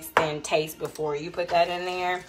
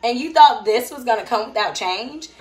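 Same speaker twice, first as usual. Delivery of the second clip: lightly voiced God, higher and gently teasing; a hint of a patient God chiding; playful high God voice reminding you what you asked for; voicing God; 6 semitones higher, 5 dB louder than usual. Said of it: "And God's like".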